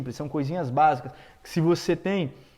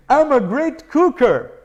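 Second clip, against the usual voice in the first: laughing demo; 6 semitones higher, 7 dB louder, slower than usual. Shown as a demonstration.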